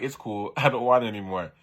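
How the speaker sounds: can't keep a straight face on the line; giggling while quoting the boy; laughing through it. Retold or imitated. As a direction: reread with a laugh breaking in.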